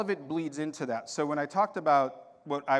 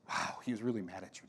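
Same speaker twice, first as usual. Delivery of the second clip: hushed son's reaction; 4 semitones lower, 8 dB quieter, faster than usual. Retold or imitated.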